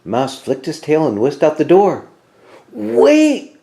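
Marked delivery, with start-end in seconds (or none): 2.7-3.6 high, loud call; cried out. A narrator's reading. Bear calling Mouse back at the door, high and loud. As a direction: call him back fast. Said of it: "Bear cried".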